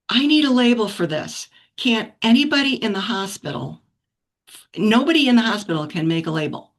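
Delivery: retelling the nurse's exasperated complaint, a touch hammed-up; frustrated nurse. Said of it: "she was getting all upset".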